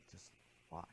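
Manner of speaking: soft whispered instruction; inner voice. Retold or imitated. Inner voice guiding the student on the bench, whispered. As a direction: whisper it slowly into the quiet. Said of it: "the voice said".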